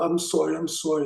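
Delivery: soft, subdued mock apology; meek apology. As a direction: act out backing down quietly. Acted meek apology to threatening neighbor.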